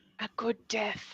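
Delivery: hushed, very quiet whisper. Whispering to everyone in character while facing a sleeping dragon: whispering in character. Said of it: "I'm just gonna whisper".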